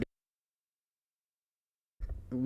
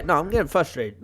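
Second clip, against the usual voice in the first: louder, exasperated insistence; flustered and emphatic; frustrated; 5 dB louder than usual. Real, not acted. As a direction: push the words out in frustration.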